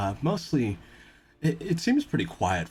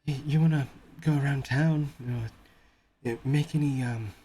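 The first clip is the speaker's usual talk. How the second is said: put-on higher, eager young helper; young guide voice; 6 semitones higher than usual. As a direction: play the shy local boy, a bit higher.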